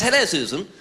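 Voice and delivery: lightly voiced posh businessman on the phone; breezy, pleased with himself; posh phone caller. Businessman phoning the office from the train, breezy and posh. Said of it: "He goes".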